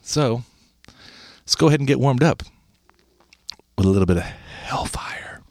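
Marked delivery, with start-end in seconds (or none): 3.8-5.4 whispering. Acted. Teasing the hellfire song.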